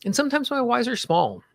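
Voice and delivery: measured lead-and-repeat delivery with long pauses; guided tapping affirmations. Shown as a demonstration. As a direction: say each affirmation phrase by phrase, leaving room to repeat.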